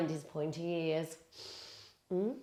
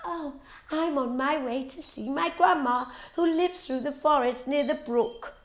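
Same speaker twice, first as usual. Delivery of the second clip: put-on higher, chirpy little girl; lightly voiced little girl; 7 semitones higher than usual. A narrator's reading. Little girl answering the wolf, higher and chirpy. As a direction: answer brightly like a small girl. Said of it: "Little Red Riding Hood replied".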